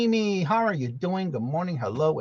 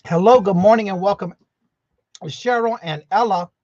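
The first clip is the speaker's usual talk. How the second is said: excited greeting; 5 semitones higher, 8 dB louder than usual. Real, not acted. Greeting after missing her.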